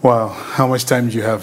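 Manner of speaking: amused, laughing through the question. Real, not acted. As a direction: chuckle while asking how much time there is. Joking about a long answer.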